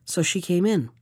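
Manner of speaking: plain reading voice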